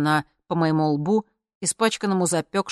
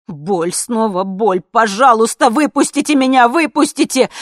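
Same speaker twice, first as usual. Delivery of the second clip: anguished pleading scream; 6 semitones higher, 13 dB louder than usual. Acted. Suffering body begging to be let out, anguished scream. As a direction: let the pain burst out as a plea. Body in pain begs release.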